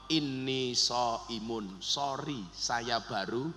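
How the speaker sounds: low, slow, soft answer; restrained reply. Acted. Fasting person answering an insult, calm and restrained. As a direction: answer the insult calmly, word by word. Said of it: "kita disuruh jawab".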